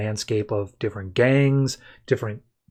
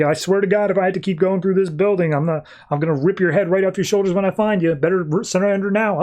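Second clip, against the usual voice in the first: higher, fast mock threat; lightly hammed-up angry hero; playful menace, a touch of fury; threatening; 6 semitones higher, faster than usual. Superman threatening while tearing through building.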